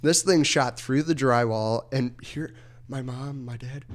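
ordinary talk, nothing marked

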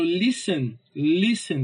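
"listen" with LI stressed. Shown as a demonstration. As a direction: lean on the first syllable of "listen". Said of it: "tu vê que o li".

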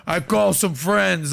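put-on slow, drawn-out parody accent; mock a badly done cartoon accent, stretching the words; mock Andrew Tate accent. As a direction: imitate a bad mobster-style accent, slowly. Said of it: "I don't know about that accent right there".

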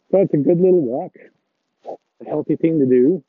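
muffled under a coat hood. Real, not acted. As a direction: talk from inside a hood. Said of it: "if I sound a little bit muffled".

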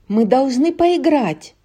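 put-on high, pushy child voice; insistent little girl. Anna insisting.

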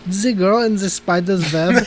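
deliberately bad Swedish accent, almost German. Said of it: "I just immediately went to that voice".

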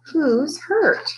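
contained shout of alarm; sit bolt upright and demand it. A narrator's reading.

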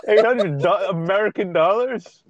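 a rant in disbelief at the price; indignant outrage. Retold or imitated.

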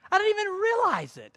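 very high, loud mock Brazilian accent. Preacher showing his adapted speech, high mock Brazilian accent. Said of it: "my pattern of speech had adapted to theirs".

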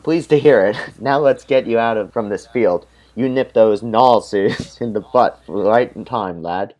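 a half-hearted posh British officer; fifty-fifty British accent. Acted. Churchill praises the lad, half-done British accent. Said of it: "I did it fifty fifty. Don't judge my accent".

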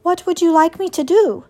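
helpful robot. A narrator's reading. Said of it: "said Roz".

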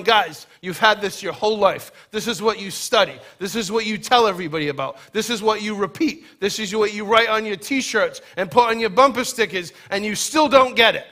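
a teacher fed up with students who still miss the point; frustrated Jesus. Retold or imitated. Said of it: "Jesus is infinitely frustrated".

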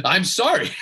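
real laugh, then I'm sorry; laughing apology. Real, not acted. Laughs at his own jab.

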